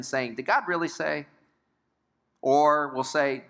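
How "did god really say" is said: higher-pitched doubting question; self-justifying question. Acted. Sinner justifying sin in heart and mind, higher questioning. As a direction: lightly question it, as if seeking a loophole. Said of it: "some justification going on in our hearts".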